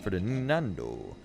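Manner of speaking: lilting, deliberate verse reading; lyrical poem recital. Acted. Streamer reading A Valentine to chat, lilting and deliberate. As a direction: recite in measured phrases with rising and falling tune.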